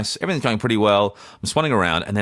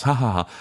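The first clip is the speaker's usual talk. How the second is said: higher, put-on "ha ha ha"; imitated group laugh; 4 semitones higher than usual. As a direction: mimic polite laughter in a group. Group laughing along, retold.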